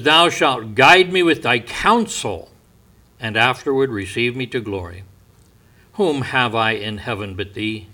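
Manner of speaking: measured, earnest Bible reading; scripture reading. Acted. Preacher reading a psalm to his congregation, earnest.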